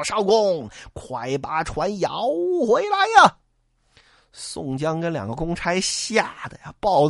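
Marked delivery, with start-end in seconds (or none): 0.0-3.4 long shouted call across the water. Acted. Men on the shore calling the boatman back, shouting. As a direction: yell for the boat to come back. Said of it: "口中叫道".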